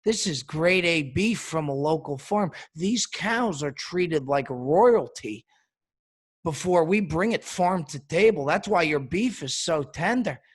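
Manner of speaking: lightly imitated foreign accent; a mild mock foreign accent, measured delivery; Salt Bae's accent. Restaurant owner defending his steak price to a diner, lightly imitated accent. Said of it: "and in his accent, he goes".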